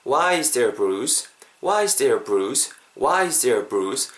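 "a" swallowed into "there" before "bruise"; barely heard article. Shown as a demonstration. Teacher demonstrating native linking, "a" almost disappearing. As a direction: link "Why is there a bruise" in one flow. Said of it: "어를 안 한 것 같죠".

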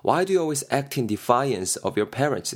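아주 느리게 한 단어씩 또박또박 읽기; 학생들이 따라오게 천천히 읽어주기. Shown as a demonstration. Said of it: "예문 천천히 낭독". (예문을 아주 느리게 또박또박)

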